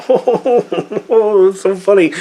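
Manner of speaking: high, laughing sarcastic praise; fake-delighted, dripping with irony; mock amusement at an unfunny joke. Real, not acted.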